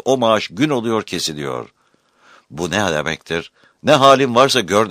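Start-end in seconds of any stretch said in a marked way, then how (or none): 3.8-4.9 higher, louder scornful quote; callous dismissal. Retold or imitated. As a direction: sneer it like an uncaring official. Voicing the callous attitude.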